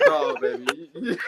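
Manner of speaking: slow firm no. Retold or imitated. Man stopping his date from fighting, slow and firm. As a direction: drag it out to shut her down. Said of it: "I'm like".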